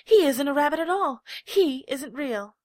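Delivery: loud, high shout slowing at the end; accusing shout. A narrator's reading. Wild rabbit shouts that he isn't real, loud and high. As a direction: hurl the accusation. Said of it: "he exclaimed".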